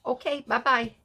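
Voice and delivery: high, cute "bye-bye" in Mara's voice; Mara's sweet goodbye. Retold or imitated. Mara replying to the recording text, in a high, cute voice. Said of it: "Mara's the only one that said".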